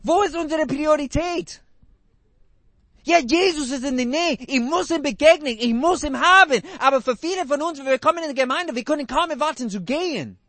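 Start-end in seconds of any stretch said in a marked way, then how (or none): 3.0-6.6 eager longing. Pretend. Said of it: "voiced eager churchgoer".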